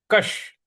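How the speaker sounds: कश with the श stressed; pronunciation demo. Shown as a demonstration. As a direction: say कश hitting the श. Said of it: "कश इस प्रकार से बोलेंगे".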